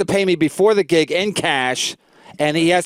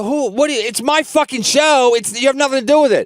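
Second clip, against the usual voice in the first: higher-pitched, worked-up protest; retold indignant argument; 5 semitones higher than usual. Comic arguing with club owner over his show, indignant. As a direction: argue it heatedly, retelling the row.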